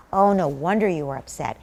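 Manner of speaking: low, understanding parent voice; sympathetic. Acted. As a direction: sympathise calmly with an upset child. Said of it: "now you're very sympathetic to the child".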